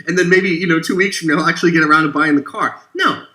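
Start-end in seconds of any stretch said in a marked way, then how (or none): 2.9-3.2 a sharp no, jumping much higher; emphatic no. Real, not acted. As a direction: break in hard to reject the idea. Cuts off his own mock scenario.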